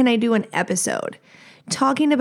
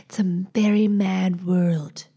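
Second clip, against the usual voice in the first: whisper; 3 semitones lower, 3 dB quieter than usual. Pretend. Quoting a song lyric.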